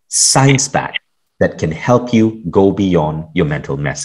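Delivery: measured, emphatic guest-introduction read; podcast host introduction. Acted. Host introducing a neuroscientist guest to listeners, polished intro read. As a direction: present the guest's credentials with deliberate phrasing.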